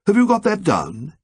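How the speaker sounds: prim, exact question rising on you; odd precise way. A narrator's reading. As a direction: precise and oddly formal, checking. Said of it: "in that odd, precise way".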